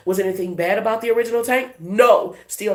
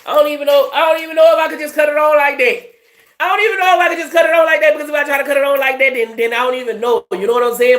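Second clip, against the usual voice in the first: high, loud, rapid-fire Baton Rouge accent; 9 semitones higher, 7 dB louder, faster than usual. Shown as a demonstration. Reader shows listeners how she regularly talks, thick Baton Rouge accent. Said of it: "if I just talk like how I regular talk".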